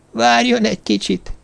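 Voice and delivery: high, squeaky little creature voice. Acted. The hidden stranger tells Jervis to wait, high and squeaky. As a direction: squeak the words like a strange small man. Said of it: "nyekeregte a hang".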